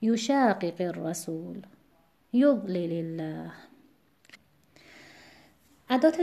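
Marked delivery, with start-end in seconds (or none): 0.0-3.5 یشاقق الرسول and یضلل الله with the linking "i" left light; yu-SHA-qiqir-rasul, YUD-lilillah, for یشاقق الرسول، یضلل الله; measured recitation of یشاقق الرسول، یضلل الله; stress unchanged by linking. Shown as a demonstration. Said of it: "چون کسرهٔ لام عارضیه".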